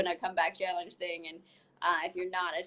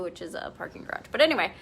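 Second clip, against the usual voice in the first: normal talking voice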